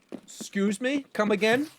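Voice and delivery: high, pretend outraged question; mock disbelief. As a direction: feign that you misheard. Mock disbelief at enemy callout.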